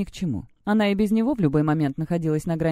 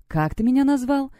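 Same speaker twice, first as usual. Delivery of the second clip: higher, icy challenge; cold demand; 7 semitones higher than usual. A narrator's reading. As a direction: ask it coldly, taking offence. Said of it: "переспросила она холодным голосом". (холодный, оскорблённый вопрос)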